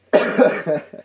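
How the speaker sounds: sharp real cough. Real, not acted. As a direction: cough away from the mic. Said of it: "first cough number one".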